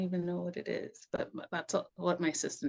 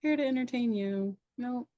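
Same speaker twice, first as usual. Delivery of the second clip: quoting herself; 6 semitones higher than usual. Retold or imitated. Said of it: "And I was like".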